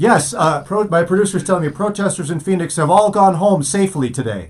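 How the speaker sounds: Wolf Blitzer impression. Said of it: "You just imitated Wolf Blitzer".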